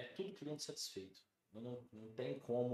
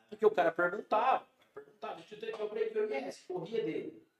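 laughing while telling; 10 semitones higher, 10 dB louder than usual. Real, not acted.

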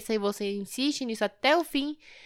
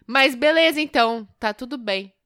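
annoyed; 2 semitones higher, 6 dB louder than usual. Retold or imitated. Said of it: "é mais raivoso".

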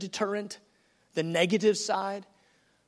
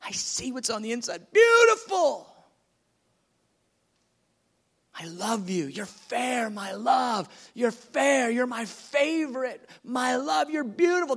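reassure, then rise in delight; loving bridegroom's affirmation; Jesus loving; 3 semitones higher than usual. Acted. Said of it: "He goes".

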